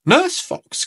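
awed at her strength; amazed gasp. A narrator's reading. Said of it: "gasped Peppa".

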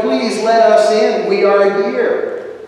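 loud entreaty, drawn out at the end; crying out. Acted. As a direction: call through a bolted door. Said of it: "they cried out".

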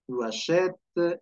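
slow "Tu achètes" with a held open è; slightly lengthened vowel. Shown as a demonstration. Teacher showing the grave accent, slow lengthened è in "Tu achètes". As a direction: stretch the è in "achètes". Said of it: "alargas un poquito la vocal".

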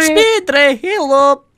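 high, loud searching call; shouting. Real, not acted. Player calling into an echoing cave, high shout. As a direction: call out to hear the echo. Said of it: "It sounds like you're shouting".

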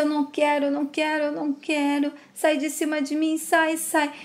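lightly acted delirium, pushing someone away; delirious protest. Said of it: "Estela começa a delirar".

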